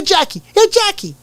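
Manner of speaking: very high comic call to a partner; excitable, squeaky movie-comedian impression; Chris Tucker. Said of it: "I used to do a better Chris Tucker".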